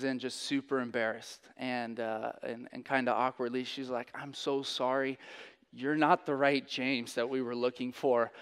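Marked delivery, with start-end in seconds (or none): 4.1-8.3 awkward apology. Retold or imitated. Embarrassed nurse apologizing.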